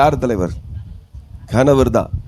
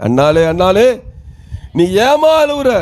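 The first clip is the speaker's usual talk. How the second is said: Elkanah. Acted. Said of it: "ஆனா எல்கனா கேட்கிறாரு". (மனைவியை விசாரிக்கும் கணவர் குரல்)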